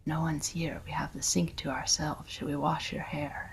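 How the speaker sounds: soft, intimate near-whisper to his mother; hushed coaxing. Retold or imitated. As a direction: coax her gently, barely voiced. Son gently coaxing his mother.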